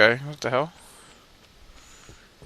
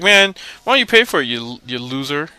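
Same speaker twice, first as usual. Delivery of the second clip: mock bully taunt; 3 semitones higher, 4 dB louder than usual. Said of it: "then he's like".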